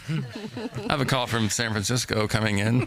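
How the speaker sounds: lightly posh businessman voice; playful imitation of a VIP taking calls; mock self-important. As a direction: brag like a big shot on the phone.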